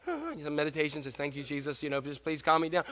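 soft, sighing meditation murmur; mock calming prayer. Dad offering a stressed parent calm time, mock calming prayer. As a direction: sigh and pray softly for calm. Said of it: "You need some calm time?".

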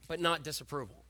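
soft aside. Shown as a demonstration.

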